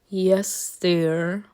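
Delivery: low, resigned husband reply; lightly imitated bored compliance. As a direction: answer like a worn-down husband. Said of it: "husband that literally is bored to death".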